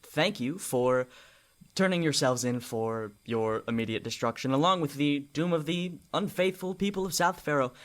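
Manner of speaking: lightly voiced formal villain; measured, polite delivery with deliberate pauses; Cyrus. Cyrus invites the party to step forward to their doom, politely formal. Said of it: "and then Cyrus, uh, says".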